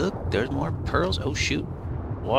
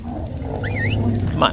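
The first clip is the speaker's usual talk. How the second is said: put-on baby voice coax. Coaxing pet.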